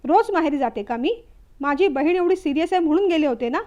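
angry reply. Acted. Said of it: "रागारागाने बोलू लागली".

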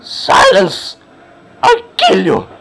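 voicing the screaming zombie in a hammed-up yell; mock zombie shout. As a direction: bark it like a raging zombie.

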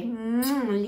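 a smacking kiss; birthday kiss. Pretend. A birthday kiss for the viewer, smacking kiss. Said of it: "And one for your birthday".

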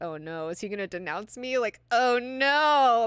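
mock worry building to a loud "oh no"; worried. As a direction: start contained, then wail the last "oh no". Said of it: "worried for him".

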